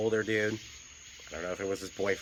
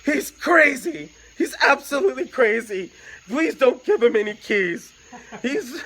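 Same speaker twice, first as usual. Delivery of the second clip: panicked pleading; 14 semitones higher, 8 dB louder than usual. Retold or imitated. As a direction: beg desperately over the phone. Boyfriend panicking on the phone.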